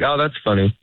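hurried oh that's funny, trying to get to the door; quick brush-off. Shown as a demonstration. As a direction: rush it to escape the conversation. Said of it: "You say it a little bit quicker".

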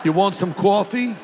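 mock East Coast accent; playful East Coast vowels. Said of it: "Or East Coast".

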